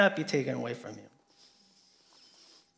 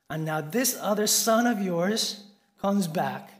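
angry quote; 4 semitones higher, 5 dB louder than usual. Retold or imitated. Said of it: "so angry, he says".

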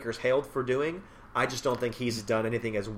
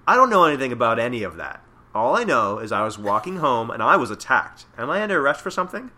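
innocent gangster denial; 8 dB louder than usual. Acted. Reading Yakuza boss denying everything.

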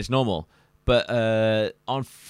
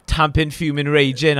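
tamping, fuming, raging rising louder; building list; 4 semitones higher, 4 dB louder than usual. Shown as a demonstration. Host escalates the list with rising anger. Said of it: "so you get, like".

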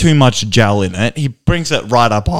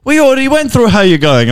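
barber voice; 10 semitones higher, 4 dB louder than usual. Retold or imitated. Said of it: "He's like".

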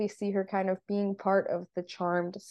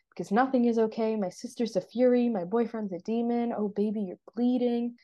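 slightly higher-pitched, quicker mock rant; mild retold rampage; 4 semitones higher than usual. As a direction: act out a little rampage, lightly. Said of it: "going on a little rampage".

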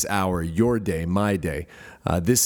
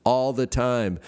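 mock yell back; 4 semitones higher, slower than usual. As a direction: imitate a group calling back. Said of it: "the other group would yell back".

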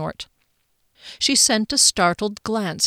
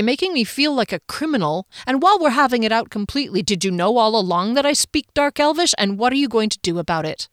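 higher, pressing and indignant; quick, indignant demand; heated accusation; 4 semitones higher, faster than usual. Acted. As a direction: have it out with them, challenging. Character in a heated argument.

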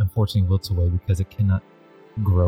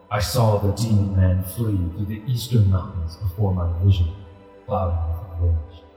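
deep rumbling voice. Acted. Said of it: "a deep rumbling voice emanates from this ghostly tiger".

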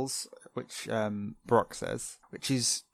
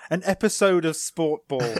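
disbelief; 5 semitones higher than usual. Real, not acted. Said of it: "Oh my God, why am I so".

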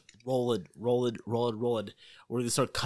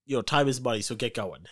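loud impatient producer; 2 semitones higher, 6 dB louder than usual. Acted. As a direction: hurry them along, loudly. Producer pushing actor to work.

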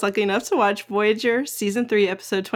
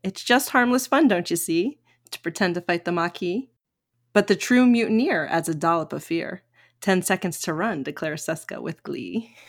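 bouncy limerick lilt. Pretend. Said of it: "So this is my limerick".

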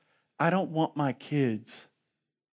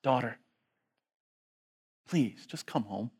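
tender father. Acted. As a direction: coax the lost child home. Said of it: "daddy in heaven ... saying".

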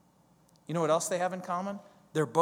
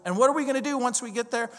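incredulous disciples; 7 semitones higher, faster than usual. Retold or imitated. Disciples question Jesus.

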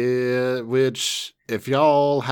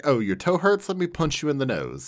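mock caring parent; 4 semitones higher than usual. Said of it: "It's like".

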